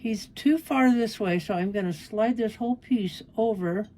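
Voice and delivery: talking around a pin held in lips; pin in mouth. Real, not acted. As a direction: speak with a pin between the lips. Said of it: "Sorry, I have a pin in my mouth".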